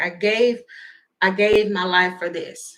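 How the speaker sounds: mock crying, tearful soldier voice. Imitating a soldier watching the video: mock crying soldier. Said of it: "There's a soldier that is just crying".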